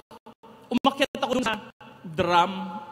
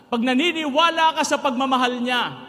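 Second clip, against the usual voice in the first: rising sermon climax; 4 semitones higher, 7 dB louder than usual. Acted. Preacher climax.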